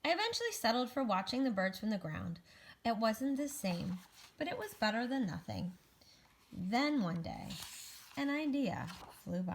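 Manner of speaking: animated, measured storybook reading; picture-book narration. Acted. Egg tells children about a great fall, storybook narration. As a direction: read to children with lifted key words.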